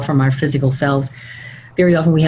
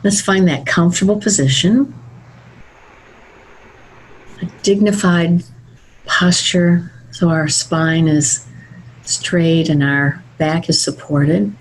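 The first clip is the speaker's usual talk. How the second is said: guided meditation. Acted. Begins guiding the meditation.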